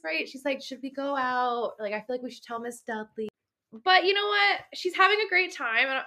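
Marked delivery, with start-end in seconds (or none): 0.6-3.3 lightly imitated hesitation, higher and trailing softer; mildly cautious. Imitating Eleanor wondering whether to go out, mildly cautious. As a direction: voice a hesitant suggestion, dropping softer. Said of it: "she's a little bit cautious".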